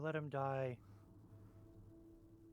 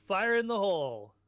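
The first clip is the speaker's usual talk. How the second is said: loud, raised-pitch warning shout; battle yell; 6 semitones higher, 9 dB louder than usual. Acted. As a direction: holler it to warn the whole party. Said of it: "I'm gonna yell".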